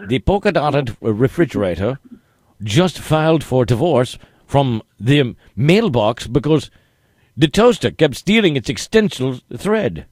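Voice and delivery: put-on wholehearted but muddled British accent; hammed-up British that lands somewhere near German; bad British accent, fuller effort. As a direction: lay the dubious British on thicker. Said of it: "put your whole heart into it".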